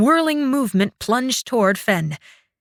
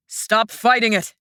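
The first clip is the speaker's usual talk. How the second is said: order. Acted. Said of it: "Shang ordered".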